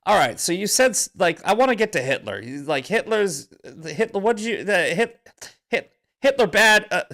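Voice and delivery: hammed-up baffled host voice; imitating Crowder. Host mocking the guest, high and incredulous. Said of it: "He goes".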